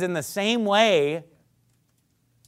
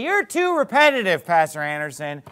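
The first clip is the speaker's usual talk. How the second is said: complaining objector; 4 semitones higher than usual. Acted. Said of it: "You say".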